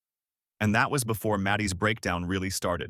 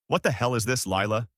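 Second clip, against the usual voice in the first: barked; 2 semitones higher than usual. Acted. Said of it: "he barked, loud enough for everyone to hear".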